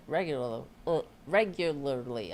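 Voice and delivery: tripping over "regularly"; tongue-tied on "regularly"; stumbling pronunciation. Real, not acted. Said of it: "I can't say that word".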